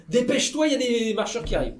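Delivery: urgent call. Retold or imitated. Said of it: "en lui disant".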